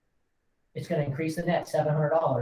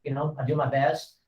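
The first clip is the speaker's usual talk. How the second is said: warm sincere congratulations. Shown as a demonstration. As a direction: gently congratulate the buyer. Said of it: "I'm gonna look at you like you're the buyer".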